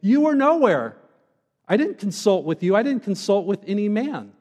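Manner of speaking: stern and direct. Retold or imitated. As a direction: flatly put Job in his place. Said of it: "God sarcastically but very sternly and directly".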